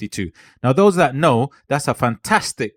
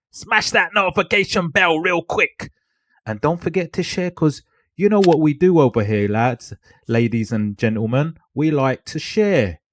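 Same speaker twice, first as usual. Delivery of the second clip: lightly hammed-up Cockney, pitched up in bursts; Cockney accent; 4 semitones higher than usual. Creator urges viewers to like and share, Cockney accent. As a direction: put on a playful Cockney accent. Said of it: "Cockney accent".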